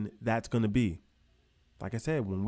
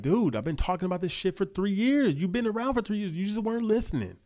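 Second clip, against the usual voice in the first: mock exasperation; 8 semitones higher than usual. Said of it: "And I'm gonna be like".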